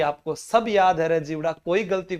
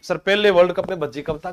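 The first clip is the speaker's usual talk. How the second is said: quick, a student asking the teacher; mock student question; faster than usual. Teacher voicing a pupil's doubt, quick and questioning. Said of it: "कभी तो था".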